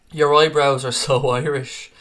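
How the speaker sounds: slow read that breaks into a real laugh; can't get through the comment without laughing; laughing while reading. Real, not acted. Reading a viewer's eyebrow comment aloud, cracking up mid-line. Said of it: "I'm still laughing at that eyebrow comment".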